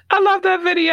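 high, loud laughing delight. Real, not acted. Laughing after funny clip.

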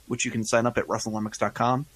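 normal talking voice

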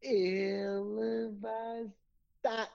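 yawned, slow and drawn out; yawning. Shown as a demonstration. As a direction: yawn through the words. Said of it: "you yawned".

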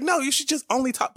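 high mock imitation of Randy; lightly mocking high wife voice. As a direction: squeak out her line like a nag. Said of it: "She's like".

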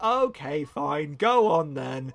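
drawn-out grudging give-in; relenting grandmother. Acted. Grandmother giving in to the child, drawn-out grudging consent. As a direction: sigh out a reluctant yes, slowing down.

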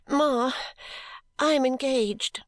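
high, slow tearful announcement; tearful cry. A narrator's reading. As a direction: blurt it to mother through tears. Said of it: "crying heartily".

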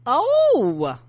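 loud, high gasp of "oh"; real shock at grim news. Real, not acted. Shocked at dead veteran's stolen photo.

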